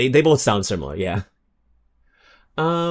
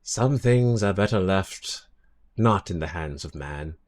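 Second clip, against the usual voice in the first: ominous voice; 2 semitones lower, 3 dB quieter than usual. Pretend. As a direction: intone it like a prophecy. Quoted ominous line.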